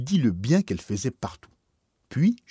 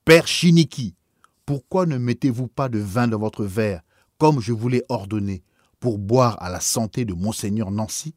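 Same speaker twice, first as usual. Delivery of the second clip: indignant shout; 5 dB louder than usual. Acted. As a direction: raise your voice in outrage. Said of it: "m'apostropha avec indignation et d'une voix bien plus élevée".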